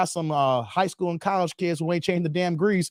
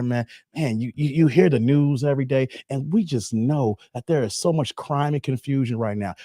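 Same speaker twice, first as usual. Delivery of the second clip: Jehovah's Witness at the door; 8 semitones lower than usual. Acted. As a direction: gently win over the man at the door. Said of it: "y'all know I'm a former Jehovah's Witness".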